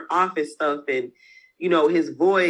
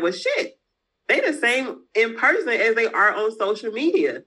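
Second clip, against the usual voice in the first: imitating surprised customers; 5 semitones higher than usual.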